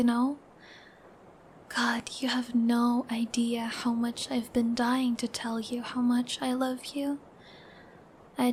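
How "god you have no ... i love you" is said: a hushed, heartfelt confession; tender whisper. Acted. Girlfriend telling boyfriend how long she waited, tender whisper.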